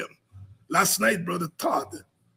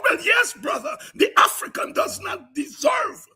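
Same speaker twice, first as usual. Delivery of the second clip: preaching at full force; 5 semitones higher, 3 dB louder, slower than usual. Acted. Host rails against the state to his audience, preaching at full force. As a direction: preach it like a fiery sermon with big swells. Fiery political sermon on air.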